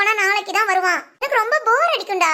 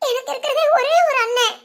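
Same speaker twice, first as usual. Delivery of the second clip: mock-tearful plea with a laugh; laughing through tears; 2 semitones higher than usual. Sister guilt-trips her only brother, mock-tearful. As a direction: plead as if crying, half giggling. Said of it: "சிரிச்சுக்கிட்டே கண்ணீர் விடுற".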